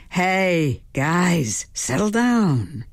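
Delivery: drawn-out, mildly firm call to settle; calm the dogs down with long vowels; easy, unhurried command to pets. A narrator's reading. Calling to barking dogs.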